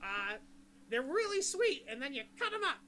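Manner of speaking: bartender. Acted. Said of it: "and he's like".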